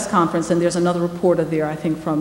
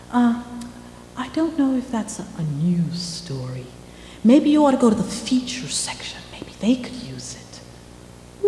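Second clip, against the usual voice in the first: hesitant, then dropping to a whisper; editor's dismissive brush-off; 4 semitones higher, 5 dB quieter, slower than usual. Retold or imitated. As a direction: brush her off with a hushed, doubtful voice.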